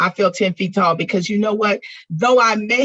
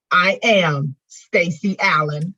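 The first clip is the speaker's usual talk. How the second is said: choked up; slower than usual. Real, not acted. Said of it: "by the time I got to saying".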